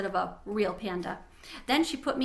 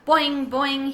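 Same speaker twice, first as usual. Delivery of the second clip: bouncy boing of a frog, higher and louder; frog call; 4 semitones higher, 8 dB louder than usual. A narrator's reading. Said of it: "he called".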